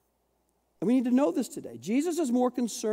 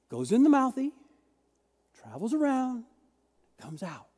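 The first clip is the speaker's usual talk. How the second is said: simplified breakdown. Shown as a demonstration. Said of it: "Let's just simplify this whole thing".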